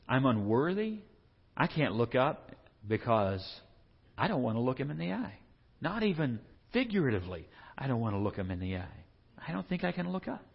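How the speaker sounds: mildly hesitant, humbled confession; a touch of shame before God; unworthy sinner. Acted. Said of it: "he's just sitting there going, he, he can't even look up".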